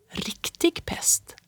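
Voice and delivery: slow breathless whisper, pitched high. A narrator's reading. The boy whispers to Fritjof over the acorn: awed high whisper. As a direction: whisper it in awe. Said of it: "viskade jag".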